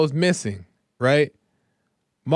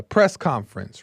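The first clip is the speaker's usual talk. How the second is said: ordinary talk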